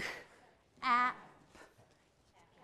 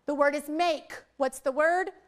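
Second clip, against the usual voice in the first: teacher prompt; 5 dB louder than usual. Shown as a demonstration. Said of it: "models teacher prompt".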